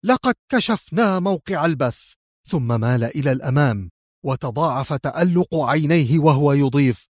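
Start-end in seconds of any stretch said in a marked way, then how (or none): 0.1-2.1 high-pitched excited announcement; thrilled, keyed-up declaration; enthusiastic excitement. A narrator's reading. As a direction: break the good news with fervour. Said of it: "وقال في انفعال حماسي".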